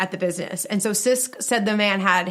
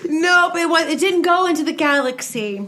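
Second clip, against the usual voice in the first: high-pitched laughing fit, then words; laughing too hard to talk; helpless laughter; 6 semitones higher than usual. Real, not acted. Cracking up at alien joke.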